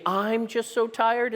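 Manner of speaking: quoted weary line. Shown as a demonstration. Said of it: "is first person".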